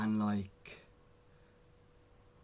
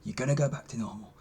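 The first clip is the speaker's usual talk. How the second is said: scared little voice; faster than usual. Retold or imitated. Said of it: "that little voice is still saying".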